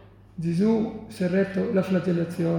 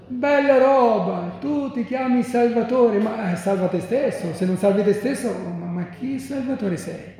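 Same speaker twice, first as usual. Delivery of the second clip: mocking irony; 3 semitones higher than usual. Onlookers insulting crucified Jesus over his name Salvatore, mocking irony. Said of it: "è un'ironia terribile".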